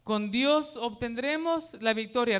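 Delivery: preacher leading a chant; declaiming the verse. Shown as a demonstration. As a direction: proclaim it for them to repeat. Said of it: "Repítalo conmigo".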